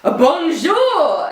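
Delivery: high, drawn-out mock call. Guest hailing French models from balcony, high call. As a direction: sing out a panicked greeting to a window. Acted panicked shout to upstairs window.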